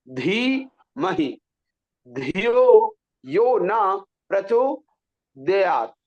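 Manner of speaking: very slow, drawn-out धीमहि with aspirated dh; clear articulation. Shown as a demonstration. Teacher models for students, emphatic breathy dh in धियो. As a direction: stretch धियो and प्रचोदयात् syllable by syllable. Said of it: "स्पष्ट उच्चारण में कैसे होना चाहिए".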